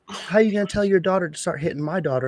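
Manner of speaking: high, mocking upset mom voice. Dad mimicking the angry mom at the game, high and mocking. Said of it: "she's just so upset".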